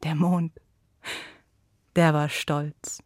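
slow whisper. A narrator's reading. Narrator telling the moon's pride, whispered. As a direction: hush it, slowly. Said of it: "whispered narration".

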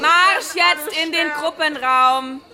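slow, loud marching order; loud command. Acted. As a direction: bark it like a drill order. Counselor ordering kids out.

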